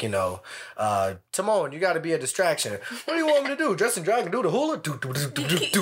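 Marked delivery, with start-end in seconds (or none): 1.3-5.8 lightly voiced cartoon meerkat, high on the question; playful Timon quote, pitch jumping up; quoting Timon. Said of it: "that scene from the original where they're like".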